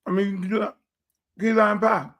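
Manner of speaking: chewing through the words; mouth full. Real, not acted. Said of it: "eat with your mouth full".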